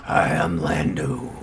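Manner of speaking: slow, drawn-out bro voice; mock a NorCal dude. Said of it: "a NorCal sick boy voice".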